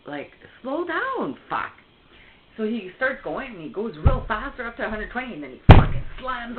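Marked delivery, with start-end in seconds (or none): 0.6-1.7 higher, louder panicked plea; retold shout. Passenger begging the speeding boyfriend to slow down, loud retold shout. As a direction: shout it as if gripping the seat. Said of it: "I'm like".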